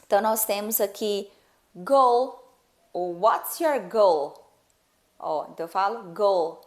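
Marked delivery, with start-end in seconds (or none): 1.7-2.4 "goal" said loud with a clear L ending; final L pronounced. Shown as a demonstration. Teacher giving an example, final L pronounced. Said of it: "ele tem que ser pronunciado". 3.2-4.3 slow question with a clear L ending "goal"; final L pronounced. Shown as a demonstration. Teacher modelling a question, final L pronounced. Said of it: "ele tem que ser pronunciado".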